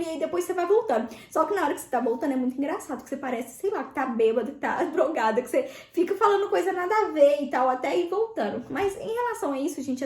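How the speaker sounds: ordinary talk, nothing marked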